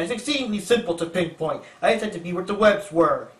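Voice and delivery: a hint of an evil villain; lightly voiced sinister villain. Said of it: "like, an evil voice".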